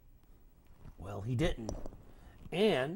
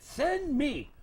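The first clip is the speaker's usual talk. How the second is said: put-on brave girl; 12 semitones higher, 6 dB louder than usual. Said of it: "She said".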